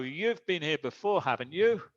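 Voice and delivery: "haven't you" lifts upward as a real question; rising question intonation. Shown as a demonstration. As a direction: let the pitch rise on "haven't you". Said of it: "And with rising intonation".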